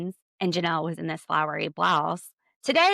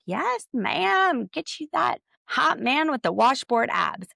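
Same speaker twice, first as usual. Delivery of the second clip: higher, louder mock voice of God; sassy God; 6 semitones higher, 3 dB louder, slower than usual. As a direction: play God as a cheeky hype friend. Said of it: "God was like".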